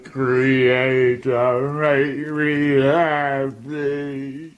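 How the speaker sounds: drawn-out imploring plea; slow, aching appeal to his creator; slow pleading. Acted. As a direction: beg him, stretching every word. Creature begs its maker.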